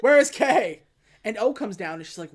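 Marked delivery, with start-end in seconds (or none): 0.0-0.8 louder, pitched-up demanding yell; half-acted shout demanding his partner; retold angry yell at the office; mock yell. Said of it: "What are you yelling about?".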